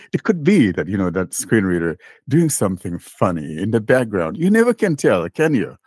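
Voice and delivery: mock-innocent speculation with pitch jumps; lilting, tongue-in-cheek doubt, pitch leaping up; sarcastic. Real, not acted. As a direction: say it as if you half believe it, sarcastically. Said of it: "That's my sarcasm there".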